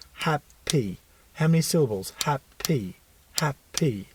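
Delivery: "Happy" split into hap-py, syllables separated as if clapped; clapping syllables. Shown as a demonstration. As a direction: clap out hap and py. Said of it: "clap it out with them and go".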